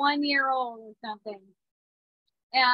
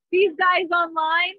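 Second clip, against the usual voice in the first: raised voice, louder to carry over the rain; shouting over rain; 5 dB louder than usual. Real, not acted. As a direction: push the voice out over the downpour. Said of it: "but I'm shouting for you guys".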